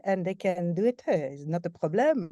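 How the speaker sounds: lightly put-on French accent; English with a touch of French accent. Shown as a demonstration. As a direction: slip playfully into a French accent. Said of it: "talk like that with the French accent".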